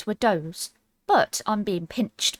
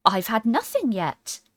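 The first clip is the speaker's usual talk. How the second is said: offended; 4 semitones higher, 3 dB louder, slower than usual. Acted. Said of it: "in an offended tone".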